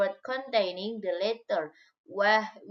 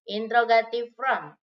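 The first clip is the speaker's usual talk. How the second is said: louder heading; 5 dB louder, faster than usual. Shown as a demonstration. Teacher repeats the heading twice.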